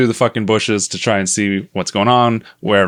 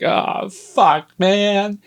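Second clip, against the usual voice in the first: high-pitched retold lament; dismayed whine; 11 semitones higher, much slower than usual. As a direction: whine it up high in mock despair. Discovers the pet is badly hurt.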